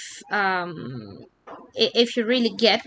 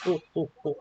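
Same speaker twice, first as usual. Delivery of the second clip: hot potato noises; 4 semitones lower, much faster than usual. Shown as a demonstration. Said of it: "it is like that".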